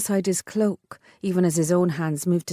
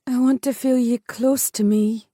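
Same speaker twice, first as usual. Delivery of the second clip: heroine's longing; 6 semitones higher, 3 dB louder than usual. A narrator's reading. Heroine voiced in romance.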